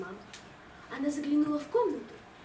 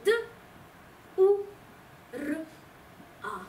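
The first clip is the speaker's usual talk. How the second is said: spelled out letter by letter. Acted. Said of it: "очень лаконичную ответную поэму".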